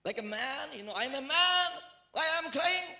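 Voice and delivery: rising, pleading protest to God; indignant appeal, climbing in pitch; baffled protest. Acted. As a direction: build to a high, loud cry. Acts his protest to the Lord.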